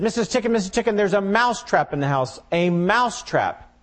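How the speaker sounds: high, fast, urgent little mouse; squeaky mouse voice. Acted. Mouse frantically warns hen, high and urgent.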